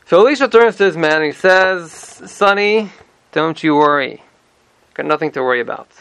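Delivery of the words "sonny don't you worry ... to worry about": easy reassurance, settling downward; reassuring. Acted. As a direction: soothe a worried younger man. Prophet reassuring his frightened man.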